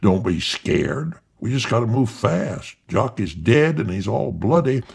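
a hint of an old husband calming his wife; disguised as old man. Jock faking Rich's voice to the crying wife. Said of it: "Jock disguises his voice like the old man".

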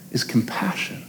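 the word compassion whispered softly. Real, not acted. Preacher whispering the answer to his congregation. Sermon climax word dropped low.

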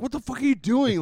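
high-pitched mock outrage; imitating an appalled, incredulous girlfriend; imitated freak-out. Girlfriend catching him taking a stranger's bread, mock freak-out. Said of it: "like, freaks out".

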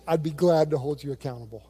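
low imitation of an intimidating pastor; really deep voice. Girl's pastor dad agrees to the intern's request, deep mock voice. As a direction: drop down into the dad's deep voice. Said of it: "he said in a really deep voice".

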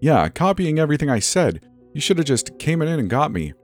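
high-pitched, indignant accusation; almost yelling. Acted. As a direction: tell off the manager in embarrassed anger. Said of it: "I was almost yelling at my manager".

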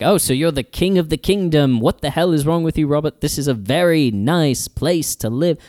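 hammed-up envious rant at Robert; mock freaking out. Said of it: "he's freaking out".

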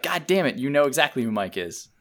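high, exasperated mock scolding; a hammed-up annoyed hiker; mock exasperation. Friend playing the hiker, hammed-up exasperated scolding. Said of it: "she's like".

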